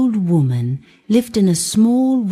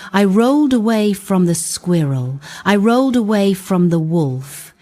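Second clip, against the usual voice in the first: brave Kolobok. Acted. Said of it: "Kolobok said bravely".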